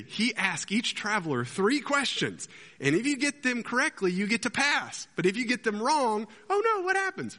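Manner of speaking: high, hammed-up English accent; amateur Monty Python English, pitched well up; English impression. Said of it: "with his English impression".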